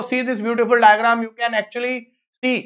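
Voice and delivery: very slow, savoring each word; slow admiring presentation; slow showcase. Shown as a demonstration. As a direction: linger on each word to show it off. Teacher shows diagram.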